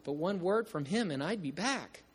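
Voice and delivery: song lyrics read with feeling; spoken lyrics of a sung lament, not sung. Shown as a demonstration. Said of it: "and I'll read the words".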